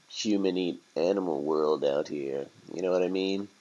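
lightly voiced streetwise rat; a hint of world-weary street talk; laid-back rat. Rat consoling turkey about the streets, casually resigned.

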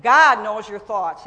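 loud, slowed proclamation; preaching emphasis. Acted. Preacher declaring to congregation, loud and slow. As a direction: proclaim it to the room.

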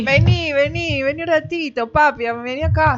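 coaxing Argentine catcall; playful Argentine come-on; Argentine flirtatious call. Shown as a demonstration. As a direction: lure him home in an Argentine lilt. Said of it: "un piropo argentino".

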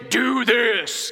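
blunt command. Retold or imitated. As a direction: bark it out flat. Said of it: "come out and say".

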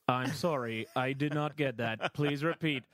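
flat automated voice, lightly done; robotic machine voice. Retold or imitated. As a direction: play the speech software refusing her. Imitating the test machine.

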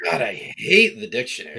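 whispered mock grumble. Real, not acted. Annoyed host whispers his gripe about the dictionary. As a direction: hiss it under your breath.

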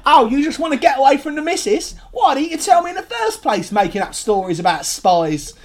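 high, loud, laughing RP film line; hammed-up old film voice. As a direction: ham up an old British film hero.

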